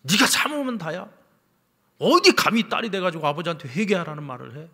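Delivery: loud, high-pitched outburst of fury; angry father. Retold or imitated. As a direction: scold your daughter as an outraged father. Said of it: "갑자기 아버지가 막 뻑 화를 내면서".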